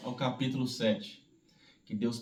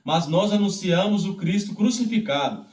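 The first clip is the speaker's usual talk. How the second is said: firm, fuller Bible reading voice; solemn public reading of the Bible; scripture reading; 7 semitones higher, 9 dB louder than usual. Acted. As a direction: read the epistle out to the congregation. Reads scripture aloud.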